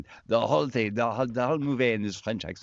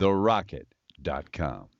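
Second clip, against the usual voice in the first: slow, deliberate; 5 semitones lower, slower than usual. Shown as a demonstration. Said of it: "Say it, Eric".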